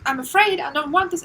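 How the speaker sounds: put-on a small child begging in fear; scared little child. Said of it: "See this as a little child".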